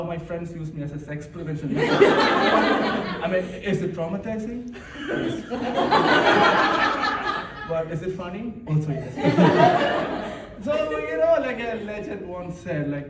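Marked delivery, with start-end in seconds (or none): 5.5-7.6 breathless high giggle; high airy laugh. Real, not acted. Comic laughing at own trauma joke, high airy laugh. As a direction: let the laugh burst out.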